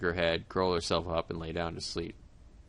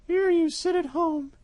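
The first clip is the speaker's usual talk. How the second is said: high, louder cat voice, slow; the cat turning it on the mouse; sly cat, chiding; 10 dB louder, slower than usual. Acted.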